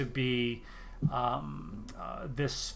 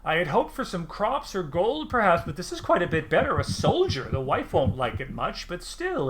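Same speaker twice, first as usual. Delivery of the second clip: curious little farmer, pitched up; lightly voiced halfling, intrigued; 5 semitones higher than usual.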